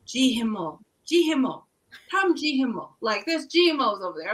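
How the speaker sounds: high, fretful mock host mom; a lightly hammed-up worried host mom. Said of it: "She's like".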